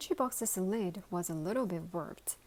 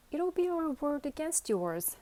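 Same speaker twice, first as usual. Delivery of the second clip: higher, louder threat; menacing threat; 8 semitones higher, 5 dB louder than usual. Acted. Pig threatens lunchbox, menacing. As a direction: lean in with a menacing edge.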